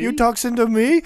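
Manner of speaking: laughing New York tough guy. Retold or imitated. Podcast host mocks a New Yorker, laughing New York accent. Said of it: "Typical New Yorker".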